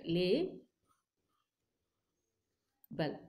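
"lay" and "bal" split into separate slow syllables; sounding out words. Shown as a demonstration. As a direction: break "lay, bal" apart with a pause. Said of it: "like this".

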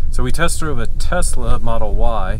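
talking over bumps; on a bumpy road. Real, not acted. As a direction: voice jolted by speed bumps. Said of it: "Sorry for the, the bumps".

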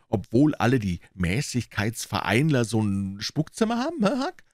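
put-on high, teasing boyish voice; knowing boy. Tom explaining the haunted room to Huck, teasing voice.

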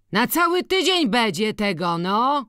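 loud, high amazed shout; exclaiming. A narrator's reading. Kuba marvels aloud at the heap of chaff, loud high exclaim. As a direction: call it out in loud wonder at the pile. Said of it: "wykrzyknął".

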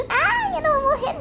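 high giggling laugh through the words. Real, not acted. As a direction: laugh it off, squealing. Jokes she will die of flu.

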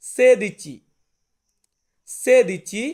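loud clear সেদিচি; Italian word demo. Shown as a demonstration. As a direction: model সেদিচি loudly for learners. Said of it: "এটাকে আমরা Italian ভাষাতে বলবো".

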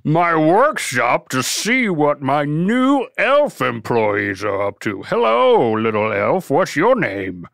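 lightly voiced jolly boss; a hint of Santa. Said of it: "I'll be Santa".

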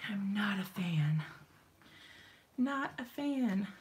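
hushed muttered complaint; whispered aside. Real, not acted. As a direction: whisper it to yourself. Aside about hot room.

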